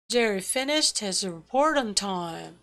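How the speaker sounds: rhythmic beats on "Jerry", "finished", "report", "time"; stress on content words. Shown as a demonstration. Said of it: "내용어와 기능어를 구별해서 강약을 주어서". ("Jerry", "finished", "report", "time"은 강하게, "his", "on"은 약하게)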